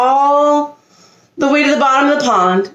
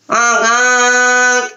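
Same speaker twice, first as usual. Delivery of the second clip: honk greeting; 2 semitones higher than usual. A narrator's reading. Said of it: "he greeted his new family".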